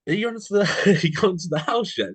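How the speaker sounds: high-pitched, nervous-laughing re-enactment; replayed high, awkward phone question; retold tentative question. Retold anxious question to host.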